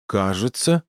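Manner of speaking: «Кажется» said as a question, rising at the end; questioning echo. A narrator's reading. Sidra querying Torin's hurt shoulder, «Кажется» as a rising echo question. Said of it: "переспросила Сидра".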